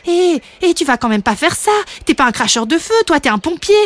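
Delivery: light, scolding inner voice; heart talking back. Acted. The heart protests to Étincelle, cheekily insistent. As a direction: challenge him, lifting the phrase ends. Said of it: "comme si son cœur frappait à la porte pour lui dire".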